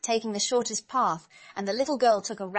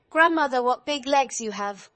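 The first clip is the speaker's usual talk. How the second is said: amazed; 4 semitones higher, 7 dB louder than usual. A narrator's reading. Girl marvels at grandmother's legs, loud amazement.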